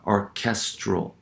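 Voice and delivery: "orchestral" slowly, stress on KES; penultimate stress. Shown as a demonstration. Lecturer showing where stress falls, "orchestral" stressed on KES. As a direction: draw out "orchestral", leaning on the middle syllable. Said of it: "the stress occurs on the".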